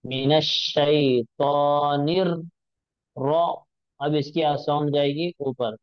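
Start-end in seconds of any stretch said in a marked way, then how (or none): 0.0-3.3 मिनश शैतानिर slow, nun joined to र; joined shaitanir. Shown as a demonstration. Teacher joining nun with the doubled र. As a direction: link the nun into र slowly. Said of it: "इसको जोड़ेंगे नून से".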